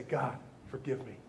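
quoted prayer of a grateful parent, hushed and humble. Retold or imitated. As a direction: pray it low and humble, almost to yourself. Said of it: "You say".

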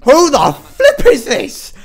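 slow laughing, near-crying giggle; slow laughing outburst; laughing disbelief. Real, not acted. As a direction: crack up at the screen.

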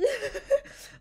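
high laugh near tears; squealing laugh. Real, not acted. Player stuck on the roofs, squealing with a laugh. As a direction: laugh out in despair.

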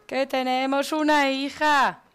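high, loud exasperated cry; exasperated calling out. Real, not acted. Player reminds Martina they have a daughter, exasperated. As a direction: call it out as an urgent reminder. Shouts at the neglectful character.

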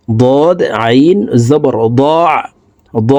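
slow spelling, "দ" closed by a pressed throat sound; throat ain. Shown as a demonstration. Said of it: "হলকের মধ্যখান থেকে চাপ দিয়ে". ("দ"-এর শেষে হলকের মধ্যখান থেকে চাপা আইন)

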